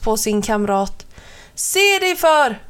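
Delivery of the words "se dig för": high little peep of a warning; a bird scolding its friend, high and sharp. A narrator's reading. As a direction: squeak it out like a startled bird. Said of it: "pep kamraten".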